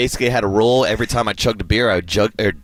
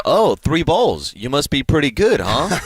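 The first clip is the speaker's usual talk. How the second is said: mock taunt; 5 semitones higher, slower than usual. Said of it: "the store clerk got in his head and said".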